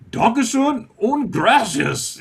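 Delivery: high, slow, drawn-out mixed-language thanks; hammed-up gratitude for a laugh; playful thanks.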